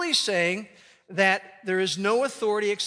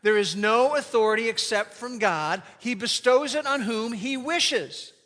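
one more time, all together; recited aloud. Shown as a demonstration. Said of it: "Let's say it to ourselves one more time".

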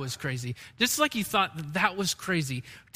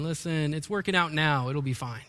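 dismissive clay; 5 semitones lower, 4 dB quieter than usual. Pretend. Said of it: "turning the potter and saying".

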